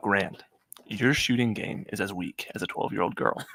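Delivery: really soft and close. Reading a comment off the screen addressed to grant, really soft and close. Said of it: "I'm gonna read it like really soft".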